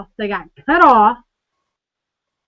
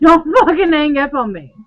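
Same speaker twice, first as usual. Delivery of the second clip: angry demand; 3 semitones higher, 5 dB louder than usual. Retold or imitated. Acted angry phone quarrel.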